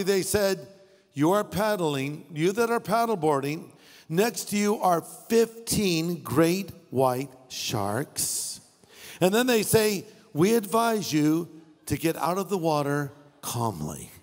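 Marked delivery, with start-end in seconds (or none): 1.1-8.6 slow, even, unbothered sheriff's announcement; calm official announcement. Retold or imitated. Sheriff's helicopter telling paddleboarders about sharks, calm and slow. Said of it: "Very calmly". 10.3-14.1 even, unhurried official tone; calm announcement. Retold or imitated. Sheriff advising paddleboarders to leave, calmly. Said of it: "Very calmly".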